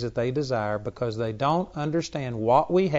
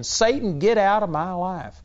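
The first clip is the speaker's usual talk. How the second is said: raised, commanding rebuke to Satan; forceful command; 4 semitones higher than usual. Shown as a demonstration. Preacher showing how to command Satan, firm rebuke. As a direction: put your foot down and order him out. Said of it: "putting your spiritual foot down and saying".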